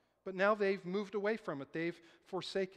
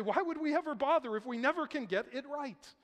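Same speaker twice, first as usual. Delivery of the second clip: higher, louder protest voicing a discouraged class; acted exasperation; 6 semitones higher, 4 dB louder than usual. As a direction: imitate pupils ready to give up. Acts out children giving up.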